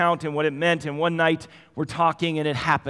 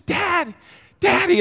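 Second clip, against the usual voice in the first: put-on high, loud child calling Daddy; a little daughter bursting to tell her dad; excited little girl; 7 dB louder, slower than usual. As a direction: squeal it out like an eager toddler. Preacher voicing toddler daughter excitedly.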